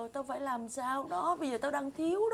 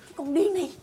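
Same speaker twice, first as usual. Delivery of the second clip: raised, higher-pitched telling-off; angry scolding; 7 semitones higher, 6 dB louder than usual. Acted. Mistress woken at midnight by her maid, angry scolding. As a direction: scold the noisy maid loudly.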